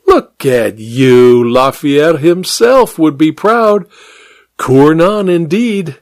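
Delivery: slow, mocking drawl of a cold woman; sly mocking woman. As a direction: savour each word, mocking him. Kit's voice in the story.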